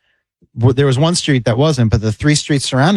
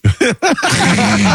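amused chuckle mid-story; laughing through the story; 10 semitones higher than usual. Real, not acted. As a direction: laugh it off as you tell it. Laughing while retelling officer.

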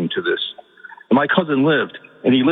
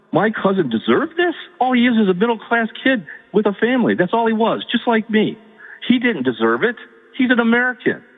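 high-pitched, incredulous protest; indignant outburst; 8 semitones higher than usual. Real, not acted. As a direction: plead in outrage, pitch climbing high. Caller protests candidate over cousin's suffering.

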